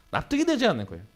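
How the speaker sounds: usual speaking voice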